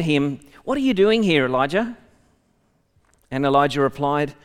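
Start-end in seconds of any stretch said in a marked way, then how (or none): 0.6-2.0 high and loud, a commanding call; booming voice of God. Acted. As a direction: call out to him from above like a thundering Lord. The Lord questions Elijah.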